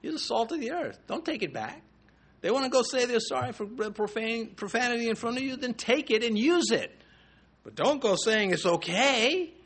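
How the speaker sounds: high-pitched, mildly chiding retold voice; gentle rebuke. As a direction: imitate a gentle rebuke, pitched well above your own voice. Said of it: "He said very gently".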